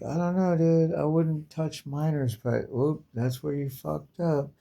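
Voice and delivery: high mock reply. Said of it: "You're like".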